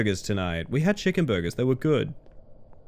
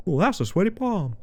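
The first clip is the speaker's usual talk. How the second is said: lightly voiced Southern film lead; Southern accent; 3 semitones higher than usual. Streamer quoting the lead's first line, Southern accent. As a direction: quote it in a mild Southern accent. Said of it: "talks in a very little bit of a southern accent".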